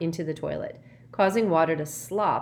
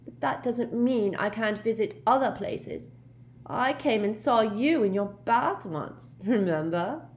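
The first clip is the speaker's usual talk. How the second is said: put-on higher-pitched, pouting girl's voice; sulky ghost girl; 6 semitones higher than usual. A narrator's reading. Myrtle reminding Harry of her visit, sulky. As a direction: answer back with a sulk.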